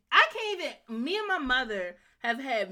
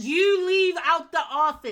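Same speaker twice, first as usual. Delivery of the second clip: mock shout; 8 semitones higher, 9 dB louder than usual. Acted quarrel, playing the mother.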